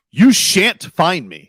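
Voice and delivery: hammed-up imperious refusal; mock demanding. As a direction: lay down the law word by word, drawn out. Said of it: "is demanding".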